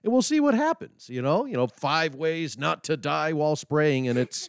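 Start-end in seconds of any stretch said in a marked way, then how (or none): 1.7-4.1 clickbait video narrator. Pretend. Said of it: "I'll clickbait title".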